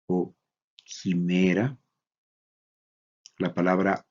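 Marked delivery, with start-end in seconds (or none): 0.8-1.8 "quimera" opening with a rough H plus EE; pronunciación con ji. Shown as a demonstration. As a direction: say "quimera" as hee-MEH-ra. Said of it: "también se pronuncia como". ("quimera" dicho con jota e i inicial)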